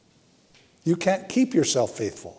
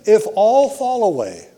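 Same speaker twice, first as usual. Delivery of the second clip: Peter's bold vow; 7 semitones higher, 4 dB louder than usual. Acted. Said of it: "Peter declared".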